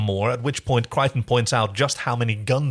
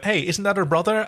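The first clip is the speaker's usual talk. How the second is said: mock surprise; 7 semitones higher than usual. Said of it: "this is where you went".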